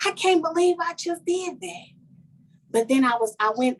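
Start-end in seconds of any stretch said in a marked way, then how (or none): 0.1-1.9 whispered, rising to high disbelief; shocked at herself. Retold or imitated. Woman after hugging her child's ex, whispered disbelief. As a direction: catch yourself mid-hug in disbelief. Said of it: "And then I'm like".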